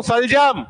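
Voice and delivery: सलजम with स from the palate; teacher demos सलजम slowly; demo pronunciation. Shown as a demonstration. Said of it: "अरे, उच्चारण करके देखो".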